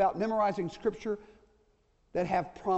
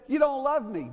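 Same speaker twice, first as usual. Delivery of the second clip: put-on child's protest; 5 semitones higher, 4 dB louder than usual. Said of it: "they might have even said".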